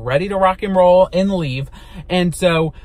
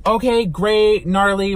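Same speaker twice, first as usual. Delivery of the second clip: mock cheerful; 3 semitones higher, slower than usual. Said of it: "I never say gnarly".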